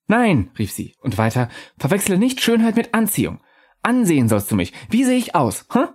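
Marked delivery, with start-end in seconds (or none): 0.1-0.5 higher, airy spirit voice, calm and knowing; a lightly raised ghost voice musing to the narrator; ghostly Undine. Acted. Ghost objects. 1.8-5.9 higher, airy spirit voice, calm and knowing; a lightly raised ghost voice musing to the narrator; ghostly Undine. Acted.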